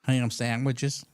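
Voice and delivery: drawn-out, slow caller voice; imitated odd caller. Odd caller answers the radio host, slow drawn-out mock voice. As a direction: play a slow, kooky phone-in caller. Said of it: "And this guy goes".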